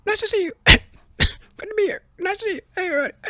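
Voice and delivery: very high cartoon squeak, greeting the empty room; a high-pitched South Park parody of Biden; squeaky cartoon Joe Biden saying hello to nobody; South Park Biden mockery. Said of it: "it seemed like a South Park gimmick".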